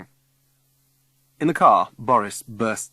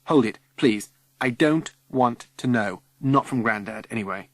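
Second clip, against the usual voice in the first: 1 exasperated; 5 dB louder than usual. Acted. Refusing to hear ghost news.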